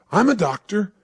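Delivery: high, loud announcement; calling out. Retold or imitated. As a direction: call it out across a field. Graham calls out in response.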